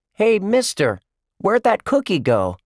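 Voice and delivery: put-on high loud kid call. A narrator's reading. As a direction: shout to the stage. Josh calling out to performer.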